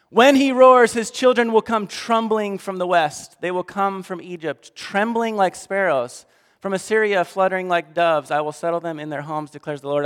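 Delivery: preacher voicing God's wrath; stern scripture reading. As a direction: thunder the judgment like a prophet. Reads God's words in Hosea.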